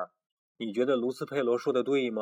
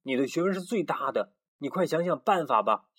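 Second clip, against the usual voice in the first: higher, pleading little voices; pleading chicks; 5 semitones higher than usual. Acted. The chicks beg Pero to bring back the sun, pleading. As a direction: beg the wise rooster for help. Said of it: "说".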